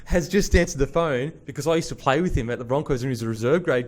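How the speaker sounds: giggling retelling; laughing while telling. Real, not acted. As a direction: tell it through laughter, stretching it out.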